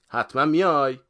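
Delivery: high, loud call for confirmation; shouted question. A narrator's reading. Friend calls after departing man to make sure, shouting. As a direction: holler the question after them. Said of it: "دوباره داد زد".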